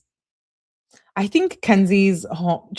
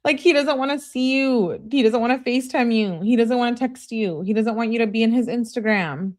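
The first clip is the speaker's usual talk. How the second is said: higher, insistent, listing each rejection; exasperated; 5 semitones higher than usual. Real, not acted. Reader telling the girl he isn't interested, exasperated. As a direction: drive the point home in exasperation, pitch raised.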